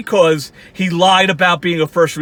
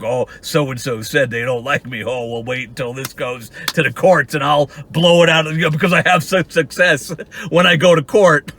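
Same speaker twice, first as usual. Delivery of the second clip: mocking Walter scheming; 5 semitones lower than usual. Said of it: "you're gonna".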